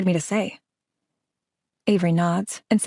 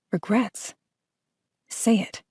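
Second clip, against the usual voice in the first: soft, inward musing on Regrets with a rise; turning the word Regrets over quietly; pondering; 3 semitones higher, 3 dB quieter, much slower than usual. A narrator's reading. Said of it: "still talking to myself".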